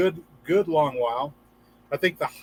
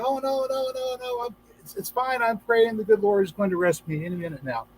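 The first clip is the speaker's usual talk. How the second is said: high refusing voice; 5 semitones higher than usual. Retold or imitated. Man refuses helicopter in joke.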